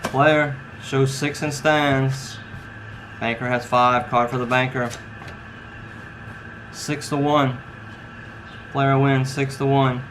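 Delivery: slow, drawn-out dealer call; casino croupier. Acted. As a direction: announce the hand like a baccarat dealer. Dealer calls the baccarat hand.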